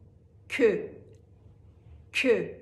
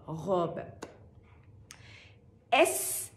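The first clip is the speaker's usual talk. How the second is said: ordinary talk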